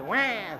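newborn cry imitation. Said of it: "and then say".

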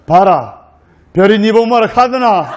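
blunt Gyeongsang dialect put-down; brusque Gyeongsang groom. Acted. Groom dismisses bride's stargazing in brusque Gyeongsang accent. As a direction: cut her short in Gyeongsang speech. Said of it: "경상도 신랑이".

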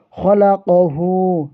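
খলা ক হু with the ক drawn out for one alif; খলা ক হু, its ক vowel held one beat; one alif stretch. Shown as a demonstration. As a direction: lengthen the vowel after ক in খলা ক হু, slowly. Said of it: "একালিফ টান হবে".

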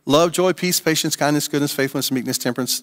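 slow version. Shown as a demonstration. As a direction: list the words one by one, unhurried. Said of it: "That, that was the slow version".

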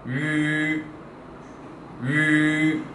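"위" with lips as if whistling, held long; slow model of Mandarin "위"; whistle-like vowel. Shown as a demonstration. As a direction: sustain "위" level, like blowing a whistle. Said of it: "휘파람을 분다고 해야 될까".

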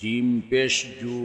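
final "জু" cut short; quick short vowel. Shown as a demonstration. Teacher demonstrating normal pesh, short "জু". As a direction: keep the last "জু" brief, not held. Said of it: "তাড়াতাড়ি করতে হয়".

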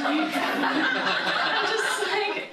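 words pushed out through laughter; slow and laughing. Real, not acted. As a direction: laugh as you say it. Laughing while telling.

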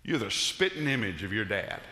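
lightly Southern, spittin' for "spitting". Retold or imitated. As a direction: quote a Southerner, dropping the g in "spitting". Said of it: "if they're really Southern".

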